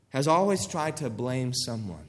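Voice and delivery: normal talking voice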